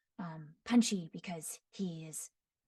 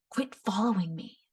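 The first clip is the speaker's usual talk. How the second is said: put-on haughty boy; 3 dB louder than usual. Shown as a demonstration. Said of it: "high-pitched sound, but with a lot of rasp".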